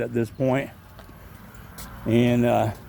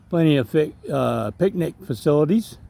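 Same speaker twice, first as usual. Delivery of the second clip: stuttering. Real, not acted. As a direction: trip over "plenty of fi-" and restart. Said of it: "and stuttering while I'm at it".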